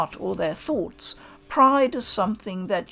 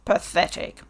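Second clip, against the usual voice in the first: contemptuous swordsman; 2 semitones lower than usual. Acted. Hichikata scorns the stranger.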